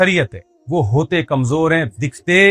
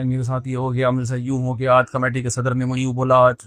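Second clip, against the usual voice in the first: low-key mock tale of woe; mock-plaintive, slightly lowered voice; playing the victim; 3 semitones lower than usual. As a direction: imitate an imam reciting his grievances to everyone. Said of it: "مظلومیت کی داستان ہے، ہر ایک کے سامنے بیان کرتا ہے".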